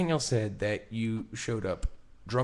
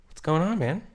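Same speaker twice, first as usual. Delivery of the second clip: fake casual; 7 semitones higher, 4 dB louder than usual. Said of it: "I literally talk to you in this voice".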